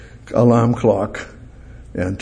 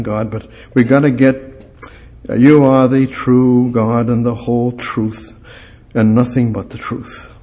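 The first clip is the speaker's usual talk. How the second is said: prayer. Acted. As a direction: pray gently and sincerely to God. Closing prayer.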